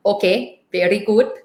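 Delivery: attempted Indian accent. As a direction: lightly imitate an Indian accent. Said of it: "sorry for my terrible Indian accent".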